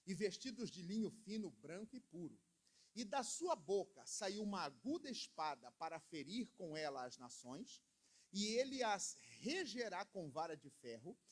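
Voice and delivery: solemn public reading of scripture. Acted. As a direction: read the verse out to the church, deliberately. Reads scripture passage aloud.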